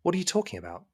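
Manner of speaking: flustered denial of the brick wall. Acted. GM voices Jeremiah bewildered.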